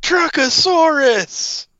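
slow, stretched announcer shout; monster truck ad. Pretend. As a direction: drag it out like a rally announcer. Joins the monster truck ad bit.

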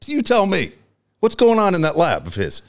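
imitated exasperated demand, pitched high; retold incredulous rant. Host imitating Van Gundy questioning a player's research, incredulous.

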